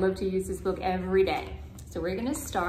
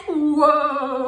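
a drawn-out cowboy whoa to stop the horse, higher and louder; cowboy calling whoa; 4 semitones higher, 6 dB louder than usual. Acted. Reading a picture book to a child, a lightly voiced cowboy whoa. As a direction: rein in the horse with a long whoa. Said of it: "He says".

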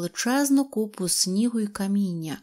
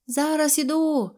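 high-pitched answering call; calling back; 7 semitones higher than usual. A narrator's reading. Roberto to his father from the hut, calling back. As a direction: sing out a reply from indoors.

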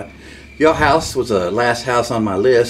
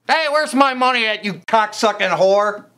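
tough pimp demand; 6 semitones higher than usual. Acted. Wannabe pimp calling a client's house, mock tough demand. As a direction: puff up and demand the cash, slowing on the insult.

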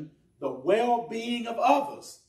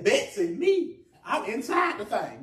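incredulous shout; 4 semitones higher than usual. Retold or imitated. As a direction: yelp it in shocked disbelief. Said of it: "in my mind, I'm saying".

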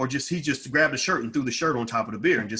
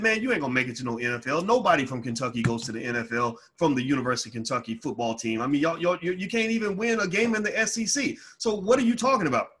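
scornful retort; 3 semitones higher than usual. Retold or imitated. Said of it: "I said".

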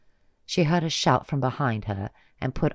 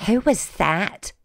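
slow, much higher alarmed question; startled; 9 semitones higher, 6 dB louder, slower than usual. Acted. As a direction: ask in shock. Pigeon asks in alarm.

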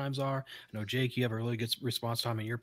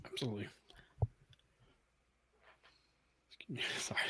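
yawning; 12 dB quieter, much faster than usual. Real, not acted. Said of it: "You yawning there?".

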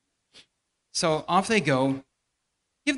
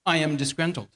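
deep theological voice; 3 semitones lower than usual. Acted. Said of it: "in her deep theological voice".

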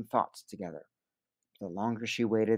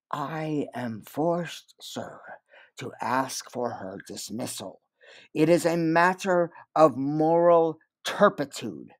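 slow, solemn, grave pronouncement; solemn and quiet; 3 semitones higher, slower than usual. Acted. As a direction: speak gravely, with false solemnity. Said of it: "his voice solemn and quiet".

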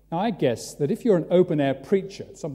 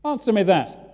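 high, loud street preacher's call; hollering question at the marketplace; open-air shout; 6 semitones higher, 8 dB louder than usual. Retold or imitated. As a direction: shout it out to stop a passer-by. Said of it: "You shout out".

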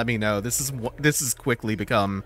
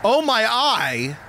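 higher, slow, drawn-out wail over a lost eye; theatrical anguish, louder; mock pain; 12 semitones higher, 5 dB louder, slower than usual. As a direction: ham up the pain of losing an eye. Eye taken in game.

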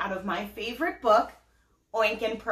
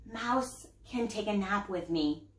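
softer, drowsy near-whisper; 5 semitones lower, 7 dB quieter, slower than usual. Acted. Pearl sleepily offering her brother the doll, softly. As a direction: sleepily offer it under the covers. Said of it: "she whispered".

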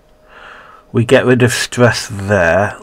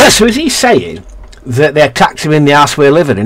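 high, alarmed question; suddenly alarmed realisation; taken aback, pitch jumping up; surprised; 4 semitones higher than usual. Real, not acted. Startled realisation about the house.

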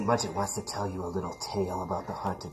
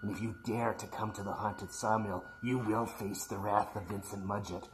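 horror trailer voice; 3 dB quieter than usual. A narrator's reading. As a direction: warn the children in a creepy hush. Spooky warning to boys and girls.

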